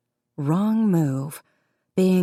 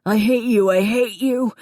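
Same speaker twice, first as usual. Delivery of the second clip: loud, higher wail; 5 semitones higher, 4 dB louder than usual. A narrator's reading. Davy wailing at Connor, furious. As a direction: wail it in rage. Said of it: "Davy wailed".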